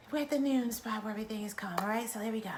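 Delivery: hushed whisper setting a calm mood. Acted. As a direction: whisper as if the room must stay still. Leads a breathing exercise.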